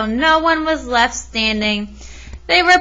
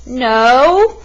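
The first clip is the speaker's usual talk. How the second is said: yelled no; 5 dB louder than usual. Acted. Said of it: "the crowd yelled".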